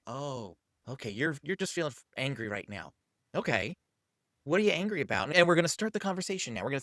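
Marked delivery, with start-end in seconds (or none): 0.1-5.3 calm them down gently; soft reassuring tone. Shown as a demonstration. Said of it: "you can say".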